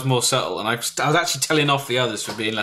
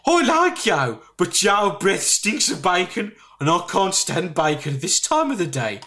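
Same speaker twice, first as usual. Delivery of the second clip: high, slow teasing offer of a date; flirty woman voice; 6 semitones higher, slower than usual.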